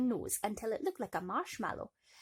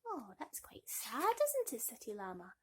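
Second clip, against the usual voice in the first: sympathetic aside; 3 semitones higher than usual. Real, not acted. Aside to toy about sad story.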